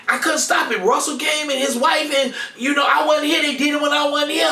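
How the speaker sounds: sister's loud defensive protest; upset sister. Retold or imitated. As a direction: plead that it wasn't your fault.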